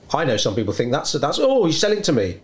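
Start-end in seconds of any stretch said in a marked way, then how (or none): 1.4-2.4 mocking whine. Mocking a whiny customer.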